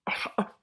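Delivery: brief breathy laugh; short laugh. Real, not acted. Reader reacting to the rat king reveal, laughing. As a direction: laugh in disbelief.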